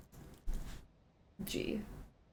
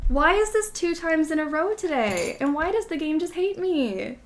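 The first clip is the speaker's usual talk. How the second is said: exasperated complaint; 7 semitones higher, 3 dB louder than usual. Real, not acted. Frustrated at game crash.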